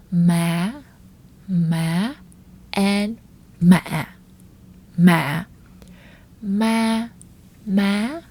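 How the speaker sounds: ma said in each of the five tones; tone drill on ma. Shown as a demonstration. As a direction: contrast each ma clearly. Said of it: "listen carefully and distinguish those differences".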